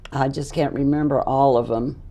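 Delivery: strained, fading hoarse voice. Real, not acted. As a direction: voice giving out. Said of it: "I'm losing my voice".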